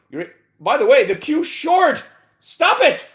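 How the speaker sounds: loud high exclamation; excited outburst. Real, not acted. Trader shouting at the chart, excited. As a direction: burst out at the chart. Teasing market.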